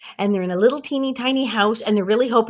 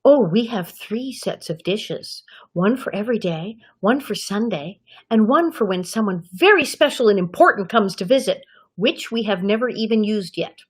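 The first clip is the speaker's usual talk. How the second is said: bragging Nellie. Retold or imitated. Snobbish girl boasting about her house's dishes, measured bragging. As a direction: show off, lingering over each item. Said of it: "where she's bragging about how much".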